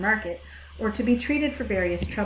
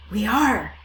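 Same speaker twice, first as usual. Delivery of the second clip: sheep chorus; 6 dB louder than usual. Acted. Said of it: "chorused the flock".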